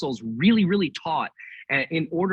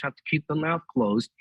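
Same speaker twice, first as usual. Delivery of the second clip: lips still, words through teeth; talking with mouth closed. Shown as a demonstration. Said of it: "sit here and talk without moving your lips".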